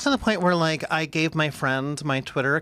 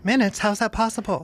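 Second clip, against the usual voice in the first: amazed, higher, lightly Australian princess; 4 semitones higher than usual. Acted. Princess hearing of a quick mop, amazed Australian accent. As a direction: marvel in a put-on Australian accent. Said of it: "she was an Australian princess".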